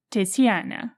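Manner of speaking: Tiziana in a Czech-Italian accent; Czech-Italian pronunciation. Shown as a demonstration. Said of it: "That was my Czech Italian pronunciation".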